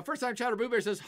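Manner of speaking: usual speaking voice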